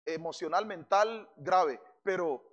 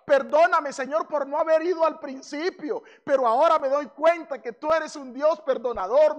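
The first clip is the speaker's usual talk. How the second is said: grateful prayer; 5 semitones higher, 4 dB louder than usual. Pretend. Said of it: "en vez de decir".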